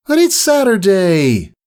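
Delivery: put-on high, slow childish whine; whiny filly. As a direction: whine it like a sleepy kid. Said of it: "Scootaloo whined".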